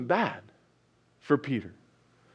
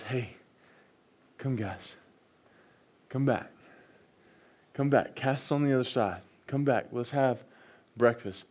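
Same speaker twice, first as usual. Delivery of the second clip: gentle call; 3 semitones lower than usual. Acted. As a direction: coax them back gently. Jesus retold softly.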